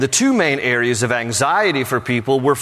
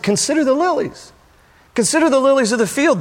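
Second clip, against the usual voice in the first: raised proclaiming voice; 10 semitones higher than usual. Acted. Jesus pointing at lilies.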